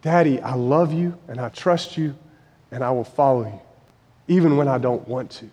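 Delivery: soft, low plea to a father, slowing at the end; quiet, trusting cry of a son to his father; tender, quiet prayer. Acted. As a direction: surrender gently, barely above a murmur. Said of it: "he cried out".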